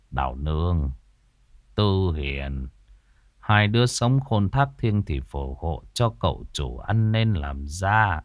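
low, soft murmured appeal; solemn prayer. A narrator's reading. Caretaker praying to two dead women at their graves, solemn. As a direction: pray quietly to the dead.

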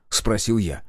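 usual speaking voice

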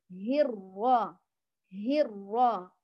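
هيرا slow, the r let through lightly; ra with a gap. Shown as a demonstration. Teacher models the correct shape for students, slow careful ra. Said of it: "بهذا الشكل".

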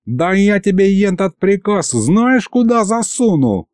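put-on high, slow old-man threat; threatening old man. A narrator's reading. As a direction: bluster at him like a furious grandad. Grandad threatening the baron.

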